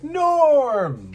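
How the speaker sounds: very high, loud cheer; whole bar hails a regular; loud high mock cheer; bar greeting shout. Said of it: "Cheers type situation".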